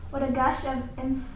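measured, rhythmic recitation of a poem; poem reading. Acted. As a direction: read it aloud, letting the repeated words ring. Student reads Poe's Bells aloud.

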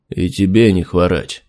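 cool, detached reply; indifferent. Acted. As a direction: answer with flat indifference. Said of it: "равнодушно ответил капитан".

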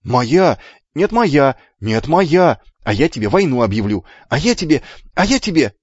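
loud, high squabbling; boys' quarrel. Acted. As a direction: shout over each other, rising in pitch. Twins quarrel over the mountain.

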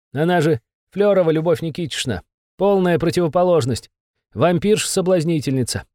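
high, anxious little demon; a cowed imp giving in; nervous demon voice. Acted. Besov describes suspect.

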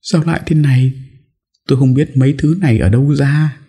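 a hint of crying out in despair; wailing. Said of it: "gào khóc". (giọng gào khóc nhẹ)

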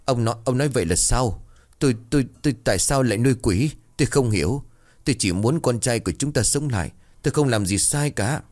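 high, quick, tripping over her words; flustered stammering. Acted. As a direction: stammer out a frightened denial. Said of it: "liền lắp bắp nói".

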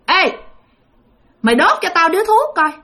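a possessed aunt ordering her husband; possessed old ghost. Retold or imitated. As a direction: bark it like a spirit taking over the aunt.

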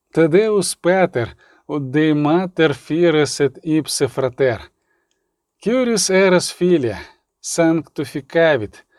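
measured, drawn-out devotional verse; solemn Latin prayer; Latin hymn recitation. A narrator's reading. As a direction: recite it as a slow church hymn.

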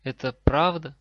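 loud questioning lift on "правда"; questioning intonation. A narrator's reading. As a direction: make "правда" a clear, emphatic question. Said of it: "Фраза определённо несла вопросительный оттенок". (с явным вопросом в голосе)

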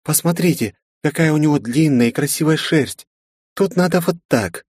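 put-on a bright elf girl correcting others; young elf girl. A narrator's reading.

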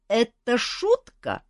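high, very slow puzzled question; a dragon asking innocently; curious dragon. Acted. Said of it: "догадалась дама".

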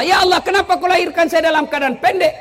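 loud, high mock complaint to God; protesting prayer. Preacher retelling his protest to God, loud mock plea. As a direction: plead your grievance with comic outrage. Saya protes kepada Allah.

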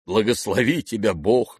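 ordinary delivery, nothing marked

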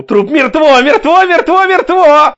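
high shouts with each blow; frenzied shout. A narrator's reading. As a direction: yell it while hacking. (исступлённый крик)

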